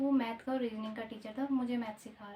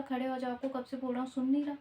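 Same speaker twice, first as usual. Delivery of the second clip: mildly louder retelling of a scolding; retold raised voice; 2 semitones higher, 6 dB louder, faster than usual. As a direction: imitate the sir's raised voice, lightly. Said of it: "इतनी ऊँची आवाज़ में मुझसे बोला". (ऊँची आवाज़ में डाँटते सर की हल्की नकल)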